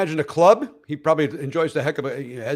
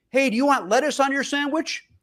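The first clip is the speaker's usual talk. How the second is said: put-on very high, top-of-the-lungs hollered yell; 11 semitones higher than usual. Retelling two women ordering at a sandwich shop: imitating someone yelling. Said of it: "she's yelling every ingredient".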